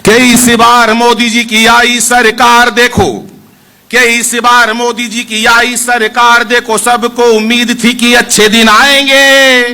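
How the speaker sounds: slow, drawn-out kavi sammelan recital; poem recitation. Acted. Poet reciting verses to the audience, slow and drawn out. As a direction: stretch each line out for the crowd.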